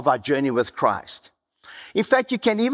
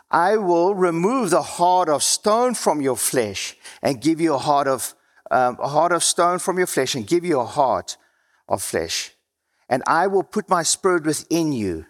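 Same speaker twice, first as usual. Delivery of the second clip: scripture reading; 3 semitones lower than usual. Acted. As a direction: read it like a solemn passage. Reads Ezekiel scripture aloud.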